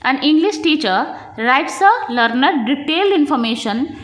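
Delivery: slow, deliberate question read; measured exam-question dictation; reading a test question. Acted. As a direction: spell the question out slowly for the class. Reads exam question aloud.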